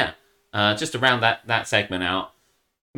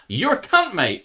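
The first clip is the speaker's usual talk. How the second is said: mock insult; 9 semitones higher, 5 dB louder, slower than usual. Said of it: "I'm just like".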